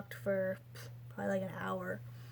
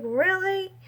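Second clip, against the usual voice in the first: higher, louder stunned question; surprised disbelief; 10 semitones higher, 8 dB louder than usual. Retold or imitated. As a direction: squeak it out in shocked relief. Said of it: "I was like".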